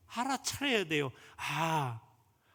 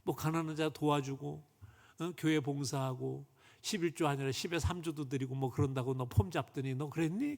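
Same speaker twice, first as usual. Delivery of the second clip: lower, lightly voiced reproachful God; mildly mock a broken promise; God rebuking; 3 semitones lower than usual. God rebuking the businessman's empty promises, lightly stern. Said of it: "이러시더래".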